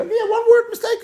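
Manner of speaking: laughing aside. Real, not acted.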